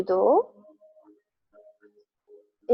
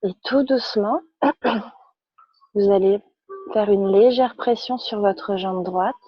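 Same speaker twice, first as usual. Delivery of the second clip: calm, measured yoga-class instruction; unhurried guidance with pauses between phrases; guided relaxation; 3 semitones lower than usual. Real, not acted. Yoga teacher guides students lying on their backs, calm guided relaxation.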